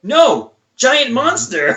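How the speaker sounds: Hulk impression. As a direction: whine it like a big dumb kid monster. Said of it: "Hulk's like".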